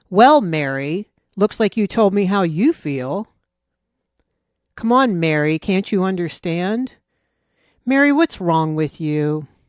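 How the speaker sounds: play-acted condescending, scornful, contemptuous, belittling delivery. Acting out someone using a name to intimidate: imitating a contemptuous tone. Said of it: "there's contempt in their voice".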